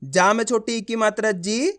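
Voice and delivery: teacher's even drill ending on lifted जी; spelling-out demo. Shown as a demonstration. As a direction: recite the letter and vowel sign, rising onto a held जी. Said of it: "देखो किस तरीके से है".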